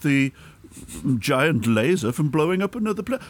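very high, theatrical sneer; camp emperor voice. Acted. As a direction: gloat like a camp villain. Doing Palpatine, mocking the heroes.

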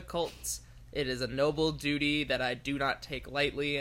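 a lightly solemn cult officer; solemn ceremonial. Acted. Solemn cult officer self-introduction.

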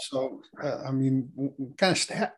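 lost voice, scratchy and strained; losing your voice mid-sentence; hoarse voice. Real, not acted. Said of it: "I lost my voice".

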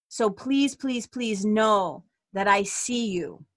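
slow, tender, long pauses between lines; channelled message. Pretend. Spirit team reassures an unknown listener, slow tender voice. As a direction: speak as a loving spirit team, unhurried and close. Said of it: "that it's like".

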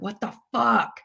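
retold alarm. Patient recalling her thoughts before urgent care, retold alarm. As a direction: replay your alarm, rattling off worries.

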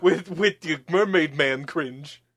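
gumshoe voice. Pretend. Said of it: "your gumshoe voice".

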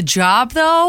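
high surprised question. Real, not acted. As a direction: shoot up in disbelief. Surprised question about the job.

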